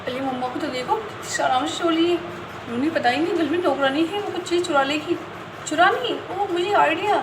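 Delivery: lightly voiced scheming little girl; mischievous girl. Chinki plotting to frame the maid, mildly gleeful. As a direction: plot a prank with childish glee.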